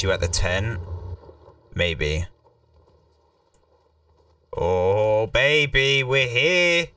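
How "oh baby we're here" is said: excited. Real, not acted. Arriving in game world excitedly.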